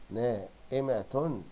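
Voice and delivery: "نائمة" drawn out slowly in pieces; slow, careful sounding-out of "نائمة"; syllable by syllable. Shown as a demonstration. Rereads word adding vowel marks.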